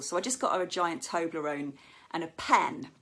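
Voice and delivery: ordinary talk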